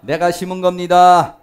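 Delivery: drawn-out, level-toned declaration; leading congregational recitation. Shown as a demonstration. Preacher leading the congregation to repeat after him, slow level recitation. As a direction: lead the room in slow repeating, voice held steady. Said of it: "해봅시다".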